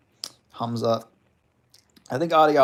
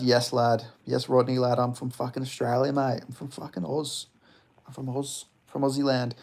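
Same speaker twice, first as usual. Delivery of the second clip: answering as a proud Aussie bloke, lightly put on; a playful broad Aussie voice, swearing included; mock Australian accent. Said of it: "Are you Australian, lad".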